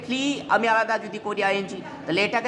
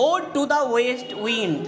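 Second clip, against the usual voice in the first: slow title reading; much slower than usual. Shown as a demonstration. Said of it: "look at the text".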